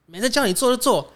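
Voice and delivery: high, loud mimicry of the angry manager; mock shrill boss yelling. Imitating the boss yelling at her across the office, high and loud. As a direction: squeal it like an outraged boss nagging. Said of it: "他就狂喷我".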